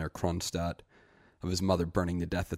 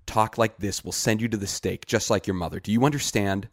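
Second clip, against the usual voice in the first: urgent warning; 3 semitones higher, 5 dB louder than usual. Acted. Greet warns him sharply.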